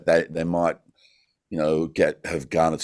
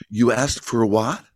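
slow, higher mock bafflement; drawn-out, puzzled question, lifted in pitch; baffled listener; 5 semitones higher, slower than usual. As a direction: imitate someone who can't make out the words. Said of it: "people would literally be sitting in front of me go".

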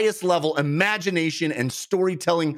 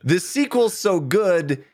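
recited like a light poem; limerick. Pretend. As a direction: read it as a playful limerick. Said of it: "in the form of several limericks".

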